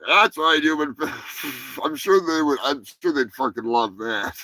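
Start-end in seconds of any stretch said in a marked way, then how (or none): 0.1-1.0 loud, high mock alien taunt; mock creature voice. Host taunting the listener in a mock creature voice. After playing movie clip.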